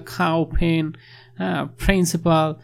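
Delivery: "খাও", "ফেন", "প্রিন্সিপাল" each with a hard, breath-puffed first consonant; forceful first syllables. Shown as a demonstration. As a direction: smack the start of "খাও", "ফেন" and "প্রিন্সিপাল" like a foreigner. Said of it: "উচ্চারণ একদম শুরুতে ঠাস ঠাস করে". ("খাও", "ফেন", "প্রিন্সিপাল" শব্দের শুরুতে ঠাস ঠাস জোর)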